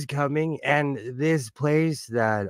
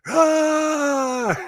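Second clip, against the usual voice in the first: Klingon death scream; 12 semitones higher than usual. Retold or imitated. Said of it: "I would do the Klingon death scream".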